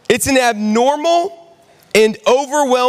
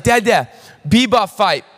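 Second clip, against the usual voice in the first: put-on toddler voice. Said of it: "she's like".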